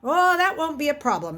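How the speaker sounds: breezy, confident reassurance; assuring. A narrator's reading. Jen's father reassures the secretary about the boy, breezily. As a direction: brush off her worry with easy confidence. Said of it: "Mister Talbot assured her".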